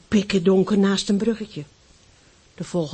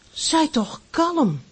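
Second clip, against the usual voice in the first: soothing mother; 9 semitones higher, slower than usual. Acted. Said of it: "zei zijn moeder".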